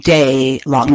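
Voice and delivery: slow, stretched-out words with pauses; drawn-out talking. Shown as a demonstration. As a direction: drag it out word by word. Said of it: "put up with me talking like this".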